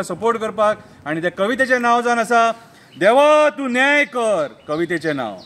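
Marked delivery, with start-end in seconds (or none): 3.0-4.5 declaimed poem title; poem recitation. Acted. Poet announcing a plea to God for justice, poem recitation.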